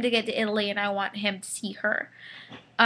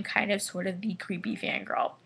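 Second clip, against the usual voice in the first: whisper; 7 dB quieter than usual. Real, not acted. Embarrassed confession, whispered aside.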